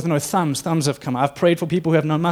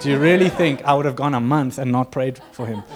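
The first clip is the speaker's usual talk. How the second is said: exasperated retort. Retold or imitated. Exasperated at repeated question.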